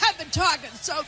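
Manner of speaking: pushing words through a coughing fit; hoarse after coughing; strained voice from coughing. Real, not acted. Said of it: "I get allergic".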